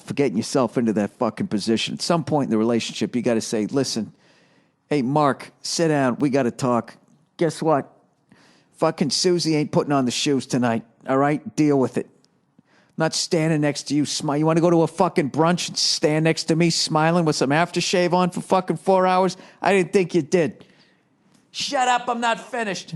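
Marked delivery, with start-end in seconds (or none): 3.7-20.7 mock wife telling him off. Wife confronting husband, acted quote. 21.5-22.9 high, sharp shut up cutting in; mock wife snapping. Wife silencing her husband mid-rant, high and sharp.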